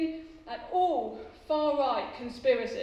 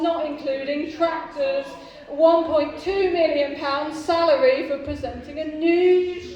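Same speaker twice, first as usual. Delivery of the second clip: loud boastful list; 6 dB louder than usual. Acted. Listing Clarkson's wealth, loud.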